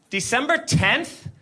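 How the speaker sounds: doubtful cop. Retold or imitated. Cop repeats answer doubtfully.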